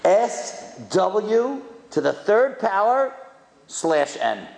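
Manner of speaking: slow, letter by letter; a speaker reading a cryptic sign aloud, slowly; slow spelled out. Shown as a demonstration. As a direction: read each symbol off the sign slowly. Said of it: "Nobody knew what he's talking about".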